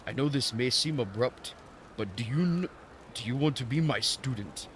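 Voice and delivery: lightly hammed mock-Japanese old master; Temu Japanese accent. Old master offering an apprenticeship, bad Japanese accent. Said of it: "doing some Temu Japanese accent".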